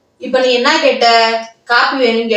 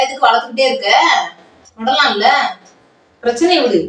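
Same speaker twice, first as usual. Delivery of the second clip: a crying shout of frustration; tearful outburst. Acted. Wife fed up with husband dragging out the fight, crying out. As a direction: break into a sob as you shout it. Wife exasperated in coffee quarrel.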